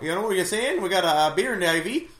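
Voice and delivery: lightly voiced Wisconsin accent. Hospital worker offering beer IV, light Wisconsin accent. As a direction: play a mild mock Wisconsinite. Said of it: "they're like".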